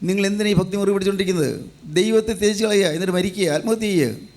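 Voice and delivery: a touch of reproach, quick and nagging; lightly voiced wife, faintly bitter; mild resentment. Job's wife urging him to give up God, mildly resentful. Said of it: "ഭാര്യ അല്പം പരിഭവത്തോടെ പറയുന്നത്".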